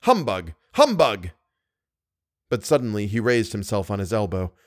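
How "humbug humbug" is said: restrained insulting cry, building on the last; mild mock shout. A narrator's reading. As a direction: call out the insult, lifting the final one. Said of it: "Thrice over he shouted".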